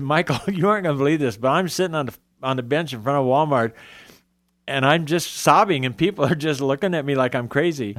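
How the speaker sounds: amused, fast retelling; laughing disbelief. Retold or imitated. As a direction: tell it laughing at yourself. Laughing retelling of his call.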